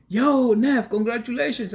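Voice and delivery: high, loud greeting in an uncle's voice; excited Uncle T. Retold or imitated. Uncle congratulates nephew on becoming a shark, high and excited. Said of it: "Uncle T goes".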